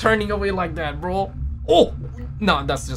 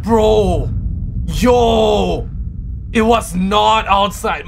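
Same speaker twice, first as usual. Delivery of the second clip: shouting; 3 semitones higher, 4 dB louder, much slower than usual. Real, not acted. Shouting at scary reveal.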